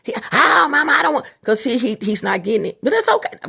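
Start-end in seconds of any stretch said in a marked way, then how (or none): 0.3-1.2 higher, impatient son voice; lightly voiced son waving off his mama; son brushing her off. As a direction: mimic a son cutting mom off. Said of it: "he's gonna cut your ass short".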